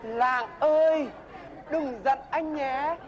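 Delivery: slow, gentle pleading apology; tender retake. Shown as a demonstration. After a slip the mentor redoes the apology line, slow and tender. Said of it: "Lỗi mồm".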